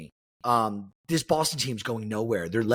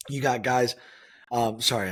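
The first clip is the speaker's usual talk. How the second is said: hiccups breaking into the words; talking through burps and hiccups; hiccuping. Real, not acted. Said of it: "I'm, like, burping and hiccuping".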